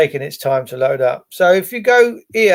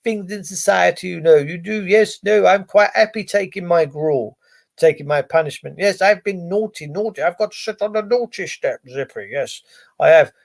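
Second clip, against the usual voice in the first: mock compliant citizen. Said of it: "But most people go".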